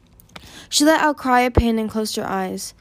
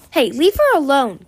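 high, loud objection; sharp interjection; 5 semitones higher, 6 dB louder than usual. A narrator's reading. Kibli defends Moon from Winter, interjecting sharply. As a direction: break in protectively. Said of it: "Kibli's voice interjected".

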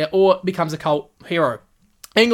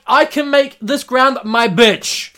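higher, louder, slow cocky boast; mock swagger; 7 semitones higher, 5 dB louder, slower than usual. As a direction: gloat like a bowler owning the ground. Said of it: "The boy is like".

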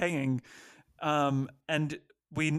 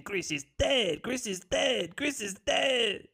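panicked repeating; 7 semitones higher than usual. Retold or imitated. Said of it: "and she's saying".

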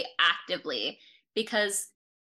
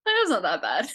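laughing; 3 dB louder, faster than usual. Real, not acted. Laughing reply.

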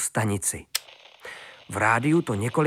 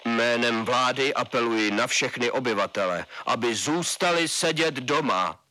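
thundering colonel. A narrator's reading. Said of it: "hřímal z rádia Šamšula".

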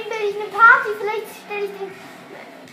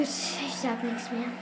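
much softer, slow and sulky; hushed; 8 semitones lower, 12 dB quieter, slower than usual. Real, not acted. Dad going quiet so the brother can sleep, hushed. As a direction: drop to almost nothing. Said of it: "aber nicht so laut".

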